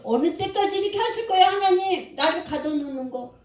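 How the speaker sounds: an understated outcry of Job; crying out. Retold or imitated. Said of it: "이렇게 막 부르짖는 거예요".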